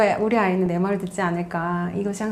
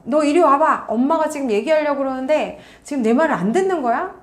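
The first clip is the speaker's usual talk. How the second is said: acted scolding, raised in pitch; mock-stern telling-off; angry parent; 4 semitones higher than usual. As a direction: act a parent getting cross with a child. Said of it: "또 한 번 화가 나고".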